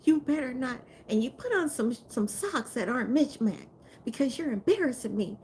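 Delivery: dad's high-pitched telling-off; scolding dad. Retold or imitated. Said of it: "he sounds like the dad from Everybody Hates Chris".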